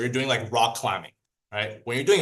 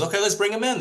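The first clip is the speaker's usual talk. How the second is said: mom; 9 semitones higher, faster than usual. Acted. Mom answers the boy.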